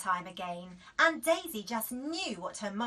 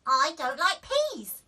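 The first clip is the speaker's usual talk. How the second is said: slow, loud, higher sulky refusal; stubborn child; 6 semitones higher, 11 dB louder than usual. A narrator's reading. Daisy refusing again, slow and stubborn. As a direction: dig in your heels, slowly. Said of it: "said Daisy".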